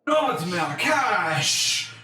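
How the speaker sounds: drawn-out, hammed-up mock dismay; false sympathy. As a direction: wail it slowly with fake grief. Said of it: "completely, um, false sympathy".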